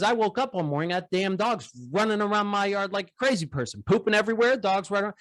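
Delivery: put-on excited old farmer recounting his dog; dairy farmer. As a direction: play the farmer, voice lifted high. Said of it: "He goes".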